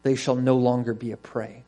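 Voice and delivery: measured, solemn reading aloud; deliberate Bible reading to a congregation; scripture reading. Acted. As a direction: read it as God's declaration, leaning on key words.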